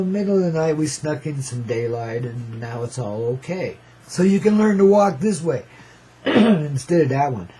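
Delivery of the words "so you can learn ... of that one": rough, rattly throat; rattly chesty voice. Real, not acted. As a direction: speak through a rattly chest. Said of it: "Excuse my little rattly voice there".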